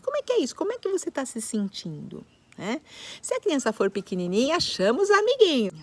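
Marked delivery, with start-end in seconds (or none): 0.0-2.3 caring parent. Shown as a demonstration. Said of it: "a como é esse sentimento".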